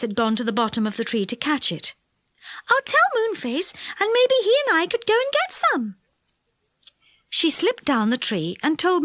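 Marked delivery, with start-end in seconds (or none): 2.7-6.0 Silky. A narrator's reading.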